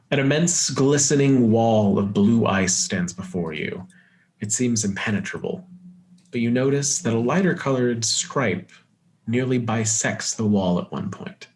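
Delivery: deliberate game master narration; scene setting. Acted. Game master reveals the frozen waterfall, deliberate narration. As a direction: unveil the sight like a storyteller.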